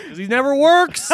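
high, laughing punchline. Real, not acted. Co-host laughing while joking the ice cream machine never works. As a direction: crack up at your own joke. Joke about broken McFlurry machine.

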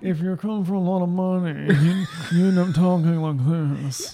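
slow, drawn-out posh English; posh English accent. Shown as a demonstration. Friend showing how rich English people talk, posh accent. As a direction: demonstrate a moneyed British drawl. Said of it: "a really posh accent".

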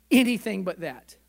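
crying out. Retold or imitated. Pastor retells crying out to God.

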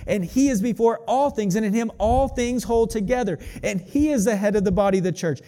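fervent, rising scripture reading. Acted. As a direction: proclaim the passage with building conviction. Reads Colossians passage with fervor.

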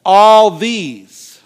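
loud, swelling mock boast; hammed-up self-important declaration; prideful boast. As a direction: puff it up like proud Peter. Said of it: "Full of pride".

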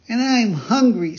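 put-on high, loud child's voice; puppet boy chiming in. Pinocchio telling the pigeon he is hungry, high and insistent. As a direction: pipe up high and emphatic.

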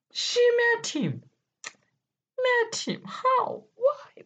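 mock shocked squeal. Dramatic disbelief, high squeals.

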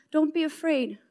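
soft, quiet reassurance; calm. Acted. Elisha answers his frightened servant, calm and soft. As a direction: reassure softly and simply.

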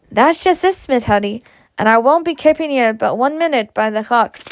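lightly voiced Gerald, lilting and emphatic; Gerald pressing his case. Man coaxes a stingy horse owner, lightly voiced and insistent. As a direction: plead the case with mild exasperation.

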